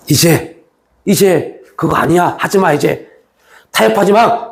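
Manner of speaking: a grave voice of Jesus calling for resolve; Jesus commanding. Retold or imitated. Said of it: "예수님 말씀하십니다".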